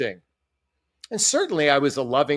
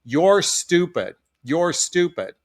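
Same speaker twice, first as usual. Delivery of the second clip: stern teacher quote; slower than usual. Retold or imitated. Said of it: "teacher say to the classroom".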